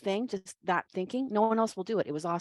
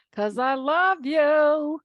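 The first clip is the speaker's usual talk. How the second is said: gushing love; 7 semitones higher, 8 dB louder, much slower than usual. Real, not acted. Judge gushing to contestant.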